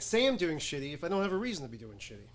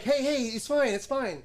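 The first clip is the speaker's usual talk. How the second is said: retold consoling; 6 semitones higher, 4 dB louder than usual. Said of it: "So now I'm consoling her".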